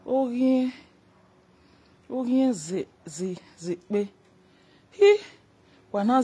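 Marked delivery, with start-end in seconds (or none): 2.1-4.1 whisper. Real, not acted. Whispered chant aside.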